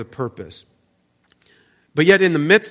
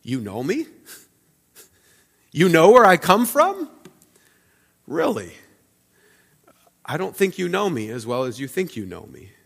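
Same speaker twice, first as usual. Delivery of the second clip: questioning tone. Retold or imitated. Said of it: "It could be translated as a question".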